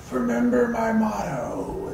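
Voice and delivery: high, slow, strained last words; hammed-up dying gasp of a line; dying breath. Timmit axed by an orc, giving last words, dying breath. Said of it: "in his dying breath".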